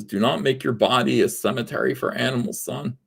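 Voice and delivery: dad's voice, talking with a lisp. Retold or imitated. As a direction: give the dad a lisp and keep it soft. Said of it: "I didn't mean to give my dad a lisp".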